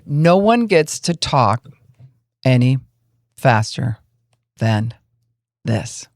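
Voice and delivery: very slow, each word spaced by long pauses; deliberately slow. Shown as a demonstration. Mediator shows a quarrelling board how slowly to talk, drawn-out. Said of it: "we have to talk really slow".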